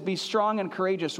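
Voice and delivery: calm, steady assurance; the right tone, God's calm assurance to Joshua. Shown as a demonstration. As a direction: say it as a promise, not a pep talk. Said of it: "It's not his tone".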